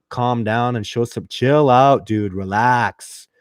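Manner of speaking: put-on Southern US drawl; imitated easygoing Southern twang; Southern accent. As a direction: lay on a folksy Southern accent. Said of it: "I sound ridiculous with the accent".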